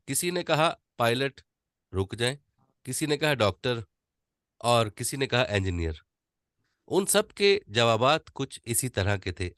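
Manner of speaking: easy, unforced reading with pauses; enjoy it, let the pauses breathe; relaxed paced reading. Shown as a demonstration. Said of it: "अब ये मजे मजे ले से पढ़ रहा हूं". (मजे मजे से ठहर कर आराम से पढ़ना)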